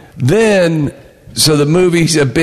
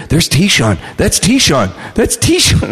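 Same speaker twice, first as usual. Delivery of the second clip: mock crowd buzz climbing higher with each repeat; excited recognition; 4 semitones higher, slower than usual. Theatergoers spotting the comedian, mock-excited calls getting higher. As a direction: imitate fans spotting someone, rising in pitch.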